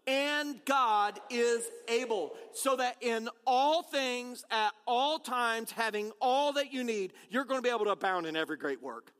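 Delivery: slow, weighted reading with all stressed each time; slow congregational recitation. Shown as a demonstration. Pastor leading the congregation in reciting the verse, slow. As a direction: recite it together, leaning on all. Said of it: "Let's say it again".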